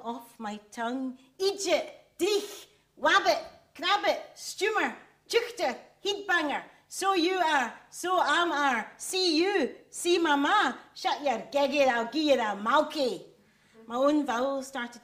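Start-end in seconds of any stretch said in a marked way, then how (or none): 1.4-13.2 put-on loud, high broad Scottish accent, words flung out; proudly broad Scottish burst of dialect. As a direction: belt the old Scots words in full broad Scottish. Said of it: "I lost my Scottish accent".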